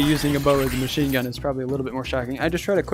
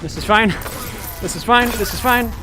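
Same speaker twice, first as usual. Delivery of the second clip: mock calm panic; 7 semitones higher, 4 dB louder than usual. Things going wrong in fight.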